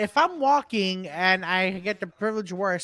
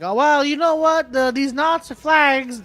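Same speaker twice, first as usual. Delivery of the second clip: higher, slowing redneck drawl; mock redneck protester accent; 7 semitones higher, 4 dB louder than usual. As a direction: put on a loud redneck voice. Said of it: "a redneck accent".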